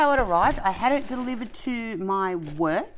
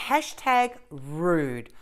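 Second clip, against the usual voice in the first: mock scolding; much slower than usual. Real, not acted. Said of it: "introducing a company without even introducing myself".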